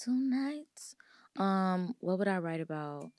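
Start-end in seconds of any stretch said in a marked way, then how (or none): 0.0-1.9 whispering. Real, not acted. Whispered reaction.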